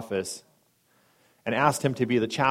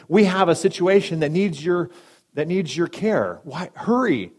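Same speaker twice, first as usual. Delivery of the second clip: frantic nurse; 6 semitones higher, 5 dB louder than usual. Retold or imitated. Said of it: "the lady is just frantic".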